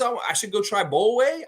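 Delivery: tossing off his ad line in a lifted voice; Scotty's hyped line. Retold or imitated. Host quoting the Raptor from his Subway ad, lightly put-on. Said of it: "Then Scotty says".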